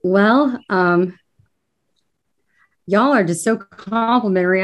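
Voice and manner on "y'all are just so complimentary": real Southern accent slipping out. Real, not acted. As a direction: let a Kentucky twang creep in. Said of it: "grabbed hold of that Southern accent".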